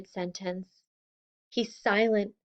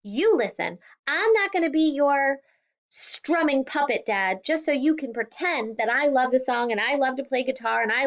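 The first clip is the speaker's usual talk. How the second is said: angry shout; 5 semitones higher than usual. Acted. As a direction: lash out at her father. Daughter yelling at father.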